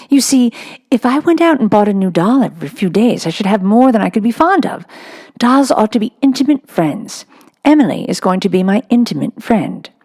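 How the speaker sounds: put-on a serious little girl explaining; Sarah. Sarah answers her papa.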